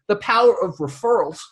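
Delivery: the phrase "the power of referrals" whispered, voiceless. Real, not acted. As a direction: breathe "the power of referrals" as a secret. Whispered repeat for effect.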